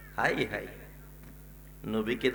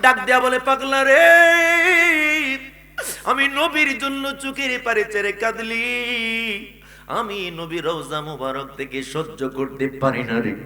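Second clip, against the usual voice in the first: intoned sermon reply; 3 semitones higher, 8 dB louder than usual. Acted. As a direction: chant a reassuring promise to a devotee.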